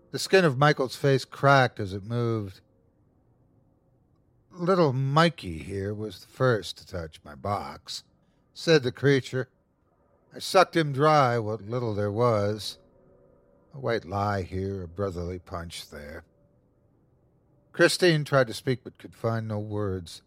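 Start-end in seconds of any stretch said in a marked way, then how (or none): 4.5-8.0 savouring, taunting monster; gloating creature. Acted. Creature presents the dead son to his mother, gloating. 10.3-16.2 gloating creature. Acted. Creature tells the mother about her son, gloating.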